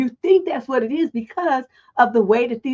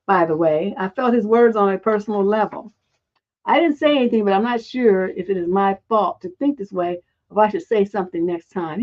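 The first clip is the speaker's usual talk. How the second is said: lower, even read-aloud voice; 5 semitones lower than usual. Acted. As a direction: read out a written post, pitched lower than chat.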